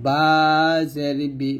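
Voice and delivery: বি said light and thin on wet lips; thin, light বা from the moist lips; light baa demonstration. Shown as a demonstration. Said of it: "বাটা আমরা পাতলা উচ্চারণ করব".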